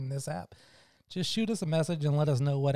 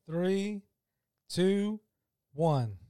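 loud countdown; 2 semitones higher, much slower than usual. Real, not acted. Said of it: "Count us down".

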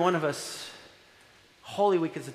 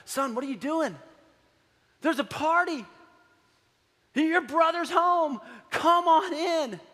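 father inviting in; 10 semitones higher, slower than usual. Retold or imitated. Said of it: "the dad comes out and says".

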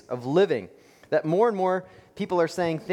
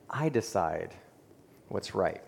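quiet refrain; 6 semitones lower, 5 dB quieter, slower than usual. Pretend.

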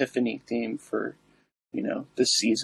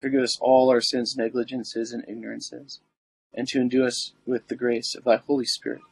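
prayer. Acted. Recites the litany.

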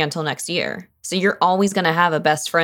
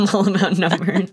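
laughing echo; 2 semitones higher than usual. Retold or imitated. Echoing a friend while laughing.

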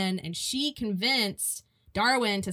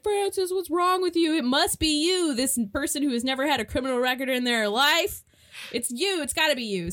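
mock accusation; 5 semitones higher than usual. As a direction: blame her in a hammed-up way. Townspeople blaming Francis.

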